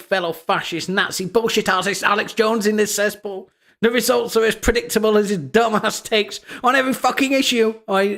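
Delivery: mock furious tweet read, rising to a high shriek. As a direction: ham up the angry poster's fury, building to a shriek. Reading angry tweet in mockery.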